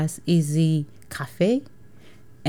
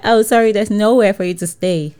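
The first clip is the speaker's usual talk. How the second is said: mock polite refusal; 4 semitones higher, 5 dB louder than usual. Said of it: "they're like".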